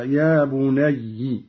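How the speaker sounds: بني drawn out slowly; yaa bunayya slowly. Shown as a demonstration. Teacher isolates بني to explain its form. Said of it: "هكذا".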